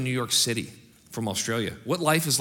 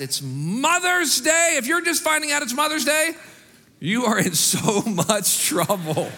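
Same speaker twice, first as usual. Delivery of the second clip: playful tease; 11 semitones higher, 4 dB louder, slower than usual. Real, not acted. Mother's Day joke, laughing.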